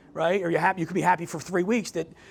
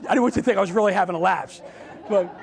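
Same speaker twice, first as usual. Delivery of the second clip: laughing; faster than usual. Real, not acted. Joking about forgetting title.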